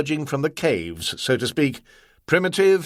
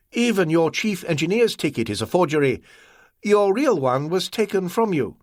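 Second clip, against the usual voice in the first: higher, cutting merchant voice; Ah Wong, cold and accusing; 5 semitones higher than usual. Acted.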